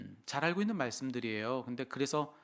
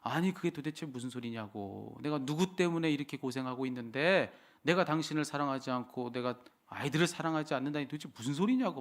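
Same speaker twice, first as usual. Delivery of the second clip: mildly acted indignant protest; storyteller's mock indignation; retold angry outburst; 3 semitones higher than usual. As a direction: act out an angry father's retort, restrained. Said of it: "불과 같이 화를 내면서".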